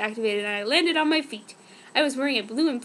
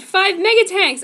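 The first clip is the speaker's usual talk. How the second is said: much higher and louder alarmed shout; screaming warning; 7 semitones higher, 9 dB louder than usual. Acted. Jeremy warning the team, screaming. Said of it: "When Jeremy screamed".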